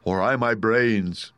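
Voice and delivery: slow, drawn-out mild wail. Acted. Scarecrow lamenting his lost brains, wailing. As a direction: lament with long vowels. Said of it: "wailed the Scarecrow".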